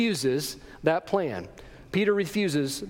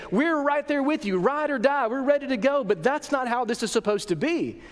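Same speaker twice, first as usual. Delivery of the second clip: higher-pitched, disbelieving objection; incredulous protest; 4 semitones higher than usual. Acted. Disciples objecting to Jesus' plan, in baffled disbelief. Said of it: "They can't believe their ears".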